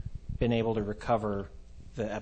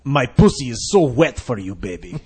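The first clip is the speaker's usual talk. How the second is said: sexy voice; 8 dB louder than usual. Pretend. Mock phone sex voice.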